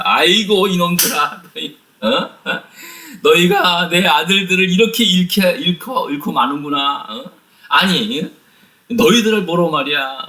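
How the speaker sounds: a father lamenting and rebuking his sons, hammed up; upset father scolding. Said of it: "막 노발대응을 하는 거예요". (아들들을 꾸짖는 아버지 야곱, 높고 한탄하는 꾸중)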